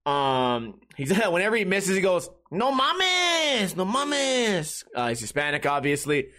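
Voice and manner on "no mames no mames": high, drawn-out mock wail; long, high-pitched mock lament; imitated groan of dismay. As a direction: wail it like a pool buddy who just missed. Imitates pool buddy missing shot.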